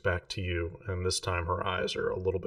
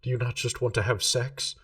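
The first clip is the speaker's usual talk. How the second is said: mild anger; 3 semitones higher, 4 dB louder than usual. Acted. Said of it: "she kinda looks angry".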